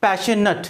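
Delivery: "पैशनेट" with a weak last vowel; adjective "-ate" pronunciation. Shown as a demonstration. Teacher answers own question, "पैशनेट" ending "-nut". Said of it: "तो क्या बोलेंगे?".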